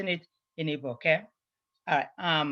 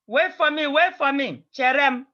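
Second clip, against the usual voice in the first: raised, higher call of wait for me; calling after them; 6 semitones higher, 3 dB louder than usual. Retold or imitated. Child calls after friend leaving for school, raised urgent voice.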